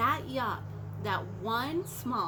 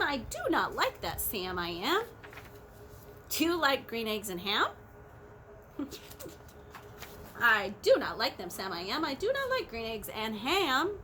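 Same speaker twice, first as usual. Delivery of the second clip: lively picture-book narration; bouncy read-aloud storytelling; storybook reading. A narrator's reading. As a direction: read it out to the children. Reading Green Eggs aloud.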